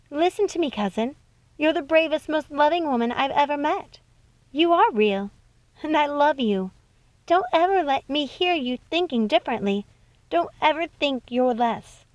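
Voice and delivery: a hint of a sweet young cousin pleading; Snow reassuring. Snow comforts Circe.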